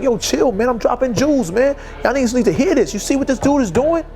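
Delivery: imitated hype. Dame hyping him to others.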